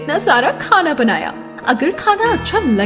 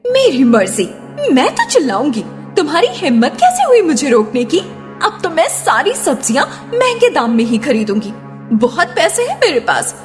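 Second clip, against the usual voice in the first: angry; 4 semitones higher than usual. Acted. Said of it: "इतना चिल्लाइए मत".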